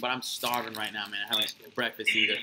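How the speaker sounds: quiet words round a bite; chewing while talking; mouth full. Real, not acted. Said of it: "I'm sorry I'm eating".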